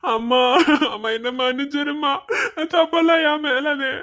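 crying, begging his mother's forgiveness; tearful pleading. Acted. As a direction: plead through tears. Son begs mother's forgiveness. (அழுகையுடன் மன்னிப்பு கேட்டல்)

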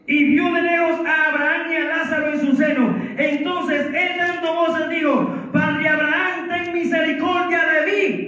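sustained, ringing pulpit reading; preached scripture reading. Real, not acted. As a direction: proclaim the verse to the congregation. Lee la Escritura predicando. (lectura bíblica proclamada con fervor)

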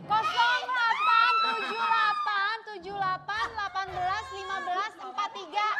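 loud announcing. Shown as a demonstration. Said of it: "Jira Raya sebutin".

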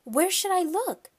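put-on high-pitched loud girlish question; upset girl. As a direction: ask it high and helpless. Upset girl asks, still distressed.

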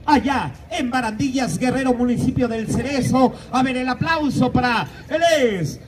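slow, drawn-out showman announcement; announcer. Acted. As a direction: build up the name like a ring announcer. Presents a guest like an announcer. (presentador de espectáculo)

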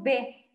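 "b" como b de labios, no como "de"; letra b. Shown as a demonstration. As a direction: decir "b" clara y breve. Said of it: "nosotros decimos". (la profesora corrige: "b", no "de")

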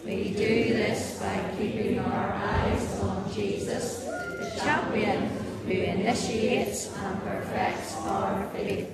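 low voice. Shown as a demonstration. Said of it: "let's do this in a low voice this time".

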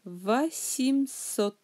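Восемьсот slowly, va-sim-SOT. Shown as a demonstration. Teacher showing both vowel changes, Восемьсот slowly as va-sim-SOT. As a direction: sound out Восемьсот with a for о and i for е. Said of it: "О sans accent devient A".

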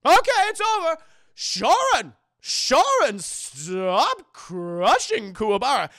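very loud, drawn-out shout to stop; urgent command. Retold or imitated. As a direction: yell across the arena to halt him. Master halts the match.

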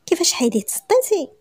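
sharp, high indignant question; wife storming at husband. Acted. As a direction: burst in demanding an answer. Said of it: "دخلت عليه بحال العجاجة".

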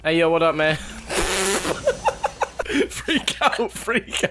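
lightly put-on rapper greeting; rapper impression. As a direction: toss out a rapper's hello. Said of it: "my best Lil Pump impression".

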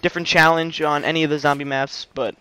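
breathless, slightly winded talk; talking while catching breath. Real, not acted. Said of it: "Sorry, I'm out of breath".

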